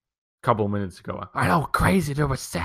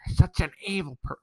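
mocking sister; 6 semitones higher, 5 dB quieter than usual. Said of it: "She's like".

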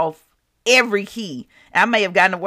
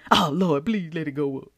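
soft little begging prayer; mock pleading; 4 semitones lower, 6 dB quieter than usual. Begging the Lord about a stock, soft mock plea. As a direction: murmur it low, imitating a desperate prayer.

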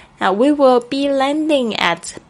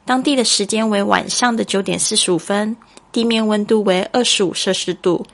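formal cabin PA voice; flight announcement. Acted. Chinese cabin announcement read.

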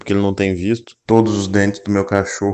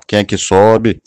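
Galvão Bueno catchphrase; 6 dB louder, slower than usual. Pretend. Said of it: "Se eu fosse o Galvão Bueno".

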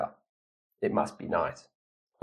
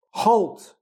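sharp, high, loud command; shout; 12 semitones higher, 5 dB louder than usual. A narrator's reading. Castle guard ordering Jack to stop, shouted. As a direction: call it out far higher and louder. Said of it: "someone shouted".

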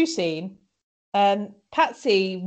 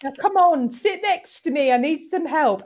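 bossy Maeve; 4 semitones higher than usual. Retold or imitated. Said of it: "Maeve goes".

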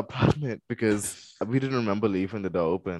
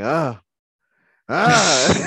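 wordless "ah" building louder; imitating struggling noise; 7 dB louder than usual. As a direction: act out trying to be heard from sleep paralysis. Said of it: "maybe people can, you know, can hear me".

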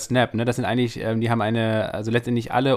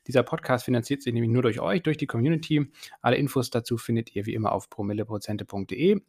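podcast outro read. Acted.

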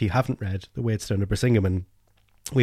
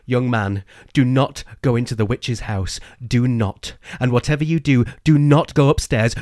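stern warning; 3 dB louder than usual. Acted. Colin warns child in story.

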